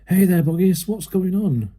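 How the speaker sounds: jeering villager. Acted.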